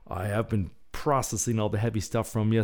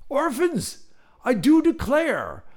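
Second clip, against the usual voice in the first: high, hearty British exclamation, louder; booming British voice; 5 dB louder, slower than usual. Acted. British worker hailing the arrivals, booming British voice. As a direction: thunder it out like a jolly British gent. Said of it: "a British voice thundered".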